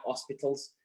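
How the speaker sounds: Yorkshire vowels in "hospitals"; quiet Yorkshire "hospitals"; Yorkshire accent. Real, not acted. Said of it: "that's my Yorkshire accent there coming out".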